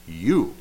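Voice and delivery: YOU said firmly and loud; emphatic you. Shown as a demonstration. Preacher stressing the Hebrew pronoun, emphatic you. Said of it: "that's how you'd say it".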